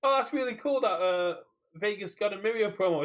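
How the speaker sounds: a mocking gushing fan voice; mock enthusiasm. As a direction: sarcastically play the happy fan. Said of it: "not going".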